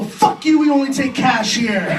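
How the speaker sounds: angry cashier. Acted. Cashier rejecting the sweaty card.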